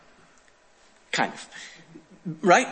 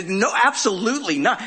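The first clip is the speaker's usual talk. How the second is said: higher, emphatic acted denial; very firm denial; 5 semitones higher than usual. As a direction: flatly refuse the accusation. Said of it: "he was just very firm about it".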